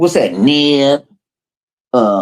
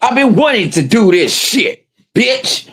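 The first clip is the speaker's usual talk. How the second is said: quoting a confrontation; 7 semitones higher, slower than usual. Retold or imitated. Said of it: "He was like".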